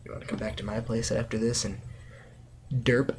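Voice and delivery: lightly vamping a cheesy come-on; mock sultry. Flirting with viewers as a joke, in a mock sultry voice. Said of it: "That was sultry".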